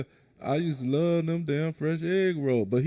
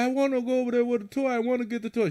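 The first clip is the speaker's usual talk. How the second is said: put-on whiny kid; 8 semitones higher, faster than usual. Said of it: "He said".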